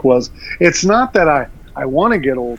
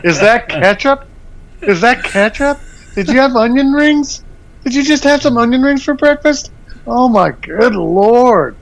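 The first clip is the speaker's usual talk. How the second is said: slow, drawn-out disgusted groaning; mock disgust; 3 semitones higher, slower than usual. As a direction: recoil from the smell, playing it up. Mock disgust at smelly elder.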